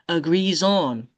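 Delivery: "Agrees on" joined as agree-zon; z liaison. Shown as a demonstration. Teacher showing how you do it, z liaison. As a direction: carry a z across in "Agrees on". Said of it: "That's how you do it".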